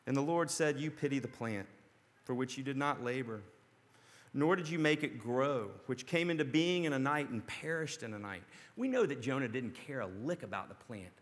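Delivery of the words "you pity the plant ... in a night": gentle. Acted. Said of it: "God gently speaks to him".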